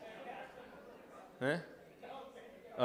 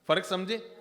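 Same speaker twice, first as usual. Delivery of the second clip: ordinary talk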